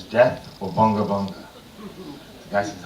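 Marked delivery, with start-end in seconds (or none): 0.0-1.3 chief. Retold or imitated. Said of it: "the chief says".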